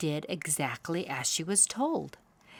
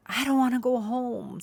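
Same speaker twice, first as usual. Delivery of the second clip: put-on young owl whining; 6 semitones higher, 4 dB louder than usual. A narrator's reading.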